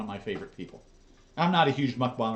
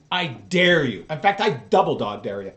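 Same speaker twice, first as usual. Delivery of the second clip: louder emphatic taunt, punching dare; 9 dB louder than usual. Real, not acted. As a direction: hurl the dare at her.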